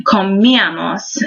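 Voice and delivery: comíamos with the "mí" leaned on; stress on the I. Shown as a demonstration. Teacher demonstrating the accent mark, comíamos stressed on the í. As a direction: hit the í in comíamos hard. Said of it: "hear me emphasize that I".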